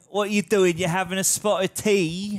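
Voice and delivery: chatty, hammed-up British accent; mock London accent. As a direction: play along as a cartoon Londoner. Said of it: "you sound like you're from London".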